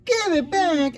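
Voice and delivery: high, loud shocked question; stunned kids asking all together. Acted. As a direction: blurt it out in disbelief. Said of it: "asked the four in shock".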